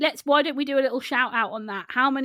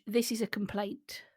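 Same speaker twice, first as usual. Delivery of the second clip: hushed, ominous whisper; dramatic whisper; 3 semitones lower, 8 dB quieter than usual. Acted. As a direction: whisper it like bad news. Reading out a listener message.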